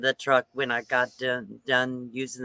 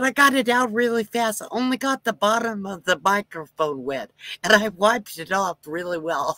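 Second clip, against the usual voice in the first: mock earnest excuses; 8 semitones higher than usual. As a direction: sell the lie, pitched up and eager. Fake reassuring excuses.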